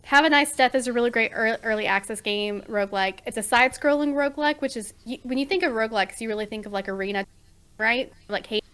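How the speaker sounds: broken-up mic audio; audio cutting out. Real, not acted. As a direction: voice dropping out on bad mic. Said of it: "You are cutting out really bad".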